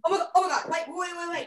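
high squealing, loud disbelief; shrieking jackpot winner. Real, not acted. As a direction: squeal like you just won. Recognizing a beloved book.

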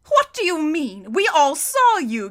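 high, loud, incredulous challenge; rising anger. A narrator's reading. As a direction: demand an answer in angry disbelief. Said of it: "beginning to rise in anger".

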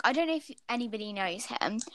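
whispered aside; whispering. Real, not acted. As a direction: drop to a whisper. Aside about Isaac.

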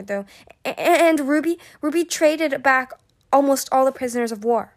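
high, whiny, stuttering plea; nervous stammering. A narrator's reading. Pinned captive tells what she knows, nervous stammering.

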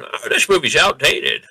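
lightly voiced creaky old-timer; a hint of a grumpy elderly viewer; old person voice. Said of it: "I did an old person voice".

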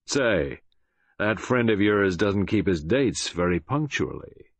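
cold, menacing American villain; Ryland. Acted. Villain gloats over bound captive about the trap, cold menace. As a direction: threaten coldly, taking your time. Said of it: "so cold and menacing was it".

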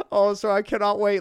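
high, loud, tearful mock voice; hammed-up crying impression; Jordan Peterson. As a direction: jokingly exaggerate an always-about-to-cry voice. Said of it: "he sounds like he's crying all the time".

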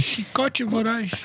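anime attack callout. Pretend. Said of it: "Chicote de loucura".

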